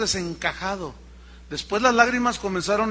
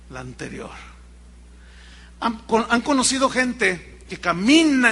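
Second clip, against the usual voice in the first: ordinary talk, nothing marked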